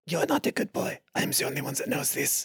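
soft, menacing stage whisper. Acted. Dog to rival being pulled away, whispering. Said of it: "I whisper in dog".

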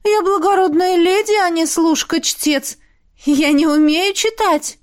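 put-on high, lofty young noblewoman's voice; haughty concubine. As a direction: play the proud, spoilt concubine, pitched well up. Concubine Marcella speaking.

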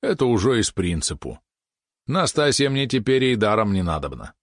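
a hint of an aggrieved country lad; lightly voiced disgruntled peasant. Country lad griping about his brother, lightly voiced disgruntlement. Prokhorov's lines voiced in narration.

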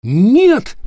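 high, loud desperate cry of no; boy's shout. Acted. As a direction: yell no to stop him. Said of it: "крикнул Питер".

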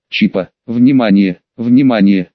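chip alarm voice. A narrator's reading. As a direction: announce it like an alarm. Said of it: "Прозвучало предупреждение".

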